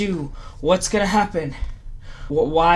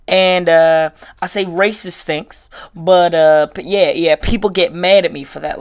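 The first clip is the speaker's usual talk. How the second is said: mock racist; 7 dB louder than usual. Parodying a bigot who complains about PC culture. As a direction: ham up a clueless bigot. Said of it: "what some of the people are saying".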